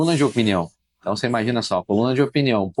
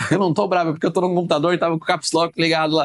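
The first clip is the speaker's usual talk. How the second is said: higher-pitched imitation of wife; lightly acted, pitched-up protest; retold defensive reply; 6 semitones higher than usual. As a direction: act out a wife explaining herself. Acting out wife's defensive reply.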